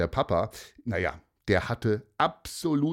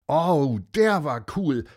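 put-on higher, louder kid cheer; excited kids; 6 semitones higher, 5 dB louder than usual. A narrator's reading. The kids recall the secret garden, excited cheer. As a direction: cheer it like thrilled children. Children answer together.

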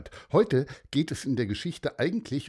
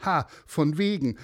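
put-on scoffing girl; 6 semitones higher than usual. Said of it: "sagte Leni".

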